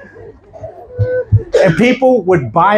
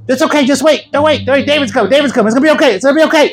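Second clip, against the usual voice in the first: higher, hurried repeated reassurances; anxious reassurance; 5 semitones higher, faster than usual. Retold or imitated. Pastor trying to calm frightened elderly lady down, urgent reassurance. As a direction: talk someone down urgently, imitated. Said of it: "he's trying to calm her down".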